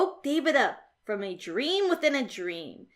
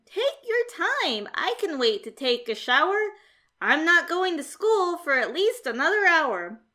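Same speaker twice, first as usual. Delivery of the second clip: lightly voiced cool cat, higher and unbothered; a cheerful, relaxed young cat who isn't scared at all; a hint of a breezy kid cat; David the cool cat; 4 semitones higher than usual.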